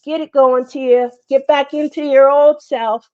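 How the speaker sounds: high, bright self-pep talk; pepping herself up. Retold or imitated. Telling herself to get going, hyped and high. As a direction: pump yourself up like a coach. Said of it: "and just was like".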